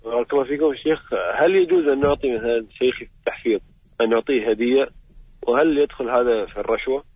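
caller heard over a phone line; loud call-in voice through the phone; radio show caller. Real, not acted.

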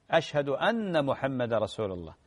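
أن محمد blended as أمّحمد with a doubled mim; no pause between أن and محمد; correct pronunciation. Shown as a demonstration. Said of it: "هذا هو النطق الصحيح".

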